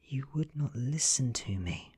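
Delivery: tender, regretful scolding; gentle reproach. A narrator's reading. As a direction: reproach the dying man gently. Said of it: "I say gently".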